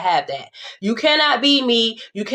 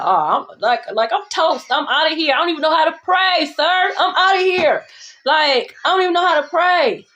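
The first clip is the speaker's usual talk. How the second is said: panicked plea; 4 semitones higher than usual. Retold or imitated. Retelling own panic about praying.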